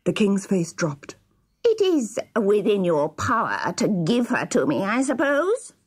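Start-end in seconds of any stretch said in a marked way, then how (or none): 1.7-5.7 sly, needling villain voice; sneering dwarf. A narrator's reading. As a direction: needle the king, rising at the end. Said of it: "sneered the dwarf".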